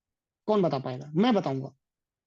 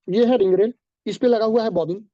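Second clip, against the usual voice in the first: louder teaching; 5 dB louder than usual. Real, not acted. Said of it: "चिल्ला चिल्ला के गला फाड़ लूंगा".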